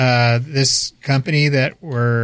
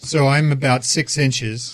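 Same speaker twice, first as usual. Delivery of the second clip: loudspeaker sound; slower than usual. Real, not acted. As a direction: voice like over a tinny loudspeaker. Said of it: "that's a weird sound you're making".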